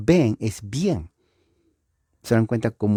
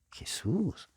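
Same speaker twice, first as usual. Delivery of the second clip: asombro fingido; 8 semitones higher, 12 dB quieter than usual. Pretend. Diálogo imaginado, asombro.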